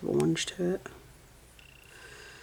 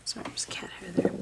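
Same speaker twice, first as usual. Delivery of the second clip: quick soft whisper; whispered apology; 5 dB quieter, faster than usual. Real, not acted. Spotting cat hair on her work, a whisper. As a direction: murmur it under the breath.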